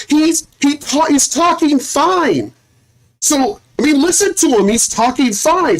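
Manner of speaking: a hint of a defensive doctor insisting he talks fine; imitating female doctor.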